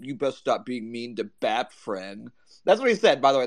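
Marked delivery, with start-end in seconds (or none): 0.0-2.3 slow, soft lisping baby-talk imitation; mock baby talk. Quoting a rival's threat in the group chat, mock baby talk. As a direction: mimic a whiny online rival talking like a child, slowly and softly. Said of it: "He's like".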